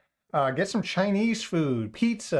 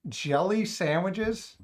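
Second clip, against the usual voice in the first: incredulous; 5 semitones higher, much slower than usual. Real, not acted. Incredulous at chat suggestion.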